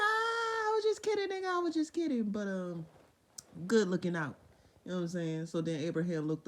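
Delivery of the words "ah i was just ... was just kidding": much higher, laughing mock apology; mock joking God. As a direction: play it off as a prank. God says he was joking.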